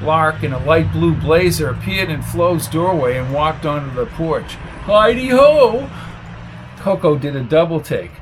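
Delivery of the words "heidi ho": high, slow sing-song hello; cheery greeting. Acted. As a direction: call it out brightly.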